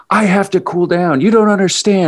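high-pitched imitation of a runner's freak-out; hammed-up frantic pleading; mock screaming. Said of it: "you just kept screaming".

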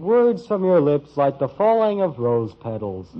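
hammed-up love-letter gushing, slow on "star of my dreams"; teasing, reading sappy lines like a lovesick suitor; mock romantic recitation. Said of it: "that silly drivel".

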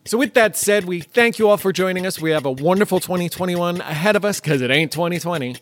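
winded, short of breath; out of breath, pushing through to the end; running out of air. Real, not acted. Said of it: "I'm running out of breath".

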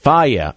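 Faya said as FAH-yeh; correct brand pronunciation. Shown as a demonstration. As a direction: say Faya in two syllables, stress first. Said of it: "'cause he can't pronounce it either".

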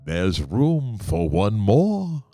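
slow, eerie ghost host voice; drawn-out Haunted Mansion narrator; spooky ghost host. Pretend. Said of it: "I want to be able to say".

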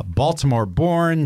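slow, drawn-out announcer build-up; host introduction. Acted. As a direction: announce the guest with ceremony. Reads a guest introduction.

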